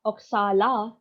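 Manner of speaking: oxala with the final syllable stressed, "o-xa-LA"; stress on last syllable. Shown as a demonstration. Lecturer showing word stress to students, oxala stressed on LA. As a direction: land on the LA in oxala. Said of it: "in the last syllable".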